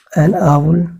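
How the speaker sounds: आउल drawn out slowly, said over and over; teacher drilling आउल very slowly for pupils; slow drilled word. Shown as a demonstration. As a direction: spell out आउल syllable by syllable, very slow. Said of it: "drills the word slowly".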